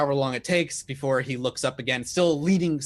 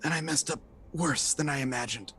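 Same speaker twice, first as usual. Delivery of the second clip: wounded man; 5 dB quieter than usual. Acted. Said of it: "and he's like".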